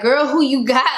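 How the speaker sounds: mock-sassy call-out; sassy teasing. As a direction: tease her with a knowing lift. Friends teasing the girl.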